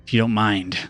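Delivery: a polite threat while holding him; menacing stranger. Acted. Stranger holding Lumpen intimidatingly.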